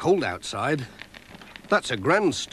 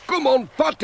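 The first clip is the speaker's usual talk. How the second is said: cheerful lady voice; 11 semitones higher than usual. A narrator's reading. Woman calls from the ice.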